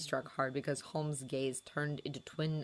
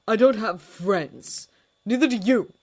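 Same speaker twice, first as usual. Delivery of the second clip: cold fury; 6 semitones higher, 12 dB louder than usual. A narrator's reading. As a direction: hammer each word. Holmes still snapping.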